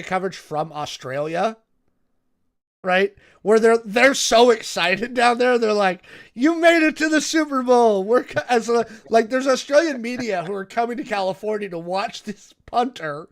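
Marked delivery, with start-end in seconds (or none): 6.3-8.0 mock excitement. Excited Australian media quoted.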